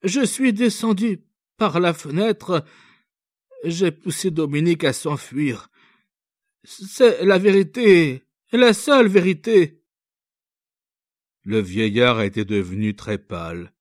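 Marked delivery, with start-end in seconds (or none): 0.0-9.8 high, pleading confession, slowing on the truth; earnest young girl. A narrator's reading. Young girl to the officer, confessing, earnest plea.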